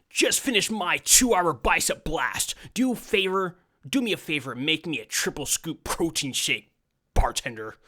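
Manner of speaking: a brash meathead ordering at the bar; gym bro customer. Acted. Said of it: "what accent to use for John".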